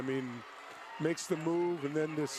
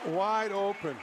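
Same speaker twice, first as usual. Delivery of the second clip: excited; 3 semitones higher, 4 dB louder, slower than usual. Real, not acted. Color man reacts to score.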